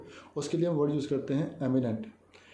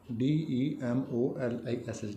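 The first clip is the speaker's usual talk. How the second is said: slow spelling; slower than usual. Shown as a demonstration. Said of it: "डिमोलिश".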